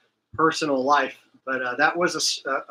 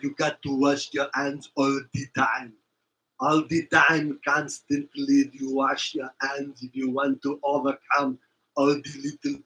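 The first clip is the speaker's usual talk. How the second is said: put-on Austrian accent. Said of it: "he still has that real thick accent".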